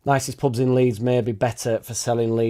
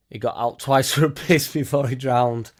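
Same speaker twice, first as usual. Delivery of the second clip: laughing; 2 semitones higher than usual. Real, not acted. Laughing while reading a story.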